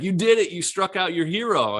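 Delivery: high, loud, overjoyed exclamation; retold cry of triumph down the phone; imitating tearful brother. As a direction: re-enact an emotional congratulation at full voice. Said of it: "he's crying".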